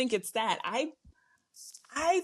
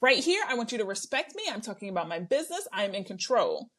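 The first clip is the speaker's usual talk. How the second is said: lightly voiced firm businesswoman; imitated assertive adult. Podcaster imitating her confessionals, lightly assertive adult voice. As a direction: state terms with a touch of authority. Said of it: "she chooses to be an adult".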